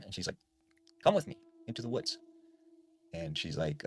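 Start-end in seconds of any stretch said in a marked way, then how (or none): 1.0-2.2 higher, fast, coaxing call in a borrowed mom voice; eerie mimic lure. Mimic in mom's voice luring Jill into the woods, higher and fast. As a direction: lure her toward the woods, eerily.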